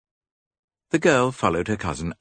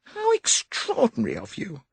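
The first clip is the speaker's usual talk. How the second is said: put-on high, light young woman pleading; higher girlish voice, resigned; young woman's voice. A narrator's reading. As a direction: voice Molly as a worried young lady. Molly voiced.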